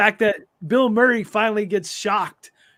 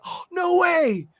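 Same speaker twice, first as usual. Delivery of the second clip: much higher and slow, a hammed-up jaw drop; stunned disbelief; 11 semitones higher, slower than usual. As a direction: replay the shock with a gasp, drawn out.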